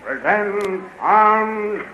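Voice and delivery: high, drawn-out drill call; parade command. Acted. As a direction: stretch the order like a drill sergeant. Soldier calling parade command.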